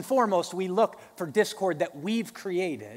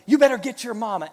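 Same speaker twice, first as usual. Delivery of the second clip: playful dad threat; 6 semitones higher, 9 dB louder, faster than usual. Retold or imitated. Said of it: "I'll say".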